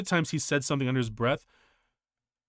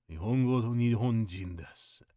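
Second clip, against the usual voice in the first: a lower, slightly softer cold repeat of the rule; low stern repeat; 3 semitones lower, 4 dB quieter than usual. Retold or imitated. Girlfriend's father warning the American boyfriend, low and cold. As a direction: step closer and lay it down low and cold. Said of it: "that was when he said".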